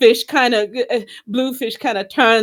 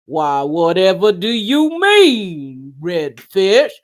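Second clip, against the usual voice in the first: slow puppet Bluefish; 3 semitones lower, slower than usual. Retold or imitated.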